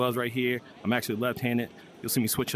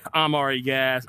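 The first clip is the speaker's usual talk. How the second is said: out of breath. Real, not acted. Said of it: "So I'm gassed already".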